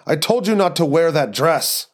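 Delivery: put-on Eastern European accent, leaning on "you" with a rise; scolding in an Eastern European accent, stressing "you". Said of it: "terrible Eastern European accent".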